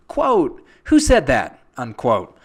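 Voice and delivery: game show announcer, big and loud; booming quiz show host. Acted.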